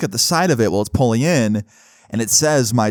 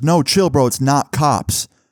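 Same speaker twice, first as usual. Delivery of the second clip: loud, hollered yell; 3 semitones higher than usual. Retelling how a guy upstairs called down to the fleeing group: imitating someone yelling. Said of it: "he yells back".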